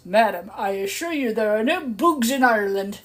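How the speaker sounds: hotel manager voice. Retold or imitated. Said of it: "with his very thing and says".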